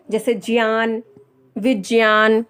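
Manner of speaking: ज्ञान said as 'jyan', विज्ञान as 'vijyan'; a j-y in ज्ञान, never hard g; prescribed pronunciation. Shown as a demonstration. Teacher modelling examples for learners, careful pronunciation. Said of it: "तो जिया ही होगा ना".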